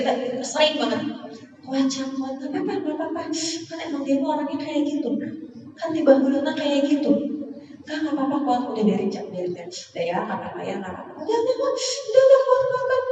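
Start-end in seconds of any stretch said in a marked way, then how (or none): 1.6-13.0 higher, sing-song pep talk to oneself; self-pep talk. Retold or imitated. Woman coaxing herself to hold on, sing-song mock pep talk. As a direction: chant yourself into staying strong. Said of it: "Ngomong ke diri sendiri".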